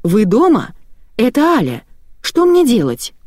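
high-pitched visitor's call from the yard. A narrator's reading. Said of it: "крикнули со двора". (высокий оклик гостьи)

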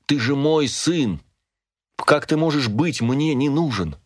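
pleading. A narrator's reading. Father protests to son.

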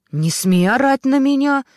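high, loud screaming; piercing shout. A narrator's reading. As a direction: scream back at him over the phone. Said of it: "пронзительно кричала Ксюша". (пронзительно кричит)

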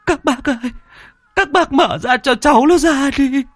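high, wailing cries of a mother over a coffin; a mother crying to free her child; grieving mother's wail. A narrator's reading. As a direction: wail and sob, begging them to open it. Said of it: "chạy lao vào trong nhà, mà chồm lấy áo quan".

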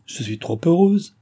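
high, lifted smiling voice. A narrator's reading. Mistress smiling at her maid's suggestion, lightly amused. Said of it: "dit André en souriant".

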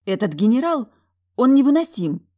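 high, loud exasperated snort; huffy outburst. A narrator's reading. Talya huffing to her sister about the unbearable general, loud. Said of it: "фыркнула она".

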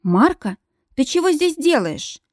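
sudden high alarmed question; startled question. A narrator's reading. Woman startled by a man in her bed. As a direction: jolt up at the name. Woken heroine startled by intruder.

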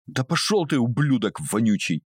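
выкрикнуть оскорбление со злостью; shouted insult. A narrator's reading. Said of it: "выкрикнула она". (резкий злой выкрик, высоко)

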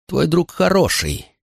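strained, drawn-out question from a furious father; short of air. A narrator's reading. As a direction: force it out as if lacking breath. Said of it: "ему не хватало воздуха".

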